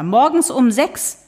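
high, slow, scolding; indignant neighbour. Acted. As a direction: Loretta complaining about the early hour. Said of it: "schrie Loretta".

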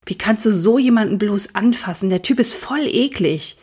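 a hint of a sneering schoolboy; lightly voiced mean boy. Dylan sneers at Stefan about Vincent, light mock disgust. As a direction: sneer it lightly, like a cold classmate. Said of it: "sagte er".

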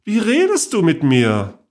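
playfully indignant; mock-offended aunt. A narrator's reading.

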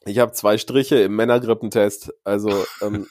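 sick, congested voice; talking while ill with a cold; man flu. Real, not acted. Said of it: "du hörst dich nicht gut an".

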